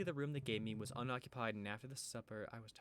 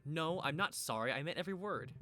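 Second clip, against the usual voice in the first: defiant; 5 semitones higher, 6 dB louder than usual. Acted. Lizzie refusing to apologize, loud and defiant. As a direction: dig in and refuse.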